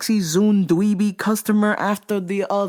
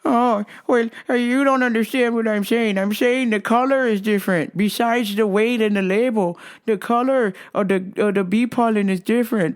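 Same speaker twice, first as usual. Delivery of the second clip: mock customer voice pitched higher; 5 semitones higher than usual. Store worker mimicking a fussy customer, higher voice.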